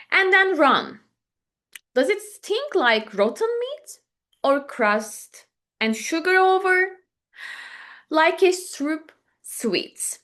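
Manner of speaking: measured poem recital with pauses between lines; poem reading. Acted. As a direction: read it as verse, letting each question hang. Reads the poem aloud.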